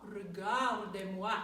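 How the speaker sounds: slow "Regardez-moi" with pursed, lifted lips; "Regardez-moi" drawn out through a kiss-shaped mouth; kissing face. Shown as a demonstration. Teacher modelling a slow, pursed "Regardez-moi". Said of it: "that same kind of kissing face".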